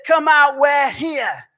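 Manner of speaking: put-on a boy yelling into an empty house; retold shout. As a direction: call out loud like a kid daring a ghost. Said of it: "my brother shouts out".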